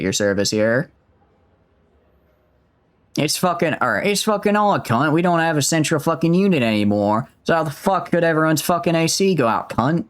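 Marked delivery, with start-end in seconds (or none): 3.2-10.0 put-on higher-pitched, overdone Aussie accent; amateur Australian, pitched up. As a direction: lay on a sweary Australian accent. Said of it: "Kinda like that?".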